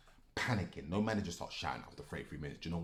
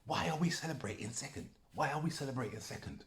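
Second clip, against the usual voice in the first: higher and louder, hammering the same question; furious ranting; 6 semitones higher, 5 dB louder than usual. Real, not acted. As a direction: shout it again and again in outrage. Angry rant about finishing second.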